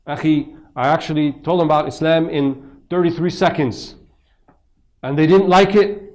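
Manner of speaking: loud, high, self-righteous preacher parody; mock zealous preacher. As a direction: ham up a smug street preacher. Mocking a preachy street dawah guy.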